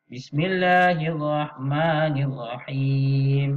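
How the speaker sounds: drawn-out Quranic recitation; slow recitation. Shown as a demonstration. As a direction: recite slowly and clearly for the class. Guru membaca bersama murid. (bacaan tilawah perlahan)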